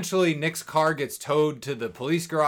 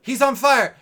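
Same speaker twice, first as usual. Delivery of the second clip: excited alarm; 11 semitones higher, 10 dB louder than usual. Acted. Recounting hero catching fire.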